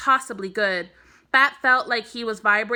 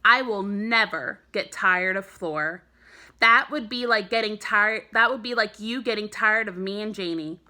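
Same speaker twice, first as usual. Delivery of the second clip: serious. Acted. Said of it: "make his voice sound as serious as he felt".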